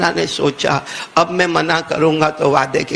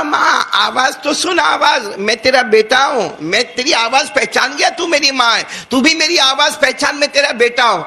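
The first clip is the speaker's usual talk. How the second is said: tearful plea; 6 semitones higher than usual. Acted. Son begging his mother, crying.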